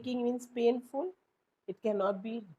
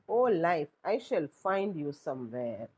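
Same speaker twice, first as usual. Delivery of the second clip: dramatic address; 3 semitones lower than usual. Shown as a demonstration. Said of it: "An apostrophe is direct address".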